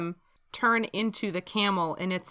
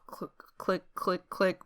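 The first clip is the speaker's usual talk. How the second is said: spur clicks; 7 dB quieter than usual. Pretend. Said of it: "Those are my spurs as I walk".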